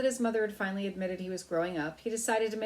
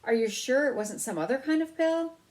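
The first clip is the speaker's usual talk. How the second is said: high, louder anxious mother voice; a fussing mother's higher voice; worried mother; 8 semitones higher, 6 dB louder than usual. Acted. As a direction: fret like a worried mouse mother. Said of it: "could always find something to worry about".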